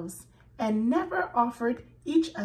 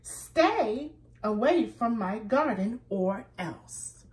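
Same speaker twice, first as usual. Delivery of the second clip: mild angry warning; 4 dB louder than usual. Acted. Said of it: "shouted Rabbit".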